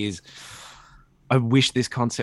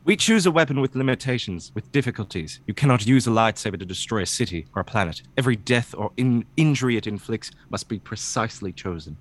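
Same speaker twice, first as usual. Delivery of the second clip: earnest dramatic read of a Jedi text; a light dramatic reading, barely voiced. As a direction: read it like a solemn Jedi lesson. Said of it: "This is just a dramatic reading".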